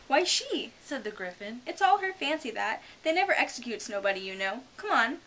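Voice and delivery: high, loud, quick common creature voice; rough griffin. A narrator's reading. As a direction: bark it like a cheeky griffin.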